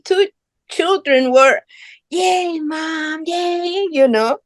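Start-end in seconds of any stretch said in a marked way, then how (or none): 2.1-3.9 high, drawn-out cheer at soft volume; small, high-pitched mock cheer; imitated cheering. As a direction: mimic kids cheering for their mom, held back.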